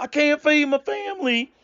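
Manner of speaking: high, mocking whine; mocking whiny white guy. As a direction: mimic a whining complainer. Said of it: "making fun of white guys talking about".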